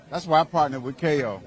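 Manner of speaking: normal talking voice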